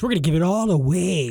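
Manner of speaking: hammed-up spoiler warning; playful announcement. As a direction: announce it with mock drama, holding back a little. Playful spoiler warning, first take.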